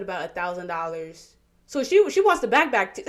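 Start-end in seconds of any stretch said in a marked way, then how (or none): 1.7-3.1 words breaking into real laughter; laughing. Real, not acted. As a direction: laugh while trying to get it out. Laughing at absurd request.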